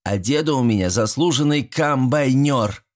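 syllable by syllable. Acted. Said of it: "по слогам выговорил".

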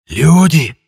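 high, loud wheezing ghost cry; a raspy joyful spirit calling out. A narrator's reading. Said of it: "Радостно просипело оно".

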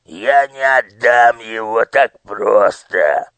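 slow, stubborn refusal; stubborn official. Acted. Fat official refusing the minister, slow stubborn voice. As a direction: dig in and refuse slowly. Abash character voice.

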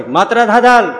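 sudden loud high call for his attendant. Acted. Maharaj wakes and shouts for his attendant, loud high call. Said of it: "બૂમ પાડી".

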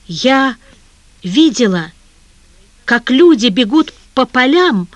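mild shaky outburst; trembling voice. A narrator's reading. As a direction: push through rising distress. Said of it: "дрожащим голосом продолжала она".

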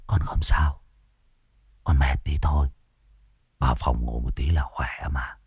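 barely a breath left, whisper it; a possessed son faintly whispering to his worried family; faint breathless voice. Acted. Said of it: "cất giọng nhẹ bẫng, như người sắp hết hơi".

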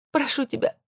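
high, begging; pleading. A narrator's reading. Begging husband. (тихая мольба)

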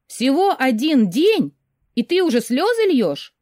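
skeptical. Acted. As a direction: friend doubts the tears over one day. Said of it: "стало скептическим".

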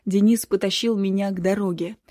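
plain reading voice

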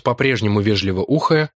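ordinary delivery

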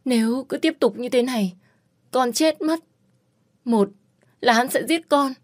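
high, begging, near breaking; desperate pleading. Acted. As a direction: beg for escape as if life depends on it. Begs to escape Đặng Ninh.

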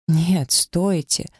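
slow, drawn-out cry after him; Нет, стойте, stretched out and cried after him; desperate cry. Acted. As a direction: call him back, begging him to stop. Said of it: "закричала ему вслед".

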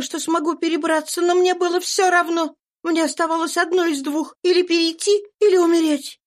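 fervent fugitive mother. A narrator's reading. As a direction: testify to God's help with passion. Eliza voiced. (горячо, голос выше)

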